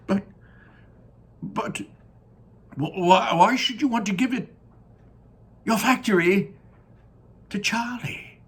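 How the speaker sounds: high, loud disbelief; astonished grandpa. Acted. Grandpa Joe to Wonka, loud high astonishment. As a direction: gasp it out in disbelief.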